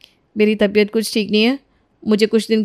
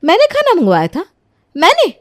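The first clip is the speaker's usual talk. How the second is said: higher, mock-shocked denial pushing on मैंने; feigned indignant surprise; 5 semitones higher than usual. Rani fakes shock at her father-in-law's accusation, higher and indignant. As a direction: act outraged innocence. Rani denies ordering the food.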